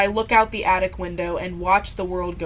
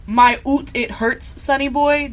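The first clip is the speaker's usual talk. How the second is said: put-on Scottish accent; 4 semitones higher, 3 dB louder than usual. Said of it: "a Scottish accent".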